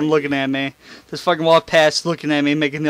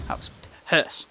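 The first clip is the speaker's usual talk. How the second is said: whispered; 6 dB quieter than usual. Real, not acted. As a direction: whisper the word pissed with no voice. Whispered aside about the poop.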